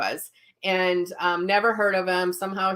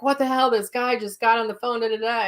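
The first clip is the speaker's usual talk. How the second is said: higher-pitched mock bewilderment; retold disbelief; 4 semitones higher than usual. Emailing the psychic about the strange caller, mock disbelief. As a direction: replay your baffled outburst, lightly.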